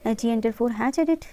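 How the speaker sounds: slow, letter by letter dictation; spelled-out shortcut. Shown as a demonstration. Teacher dictating a shortcut to students, slow and spelled out. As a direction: spell the command out slowly for students. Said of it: "dictating a keyboard shortcut".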